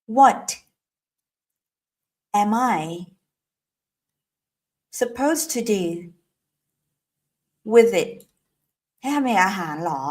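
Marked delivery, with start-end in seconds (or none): 0.0-8.1 "What am I supposed to do with it?" said slowly word by word; slow drill. Shown as a demonstration. Teacher demonstrates the full question slowly for students. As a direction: lay out each word slowly for repeating. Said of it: "ไหนออกเสียงสิ".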